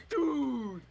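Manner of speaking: high, drawn-out stoner exclamation; loud mock-amazed call, stretched out; imitated excited teenager. Stoned teenager to donut clerk, excited.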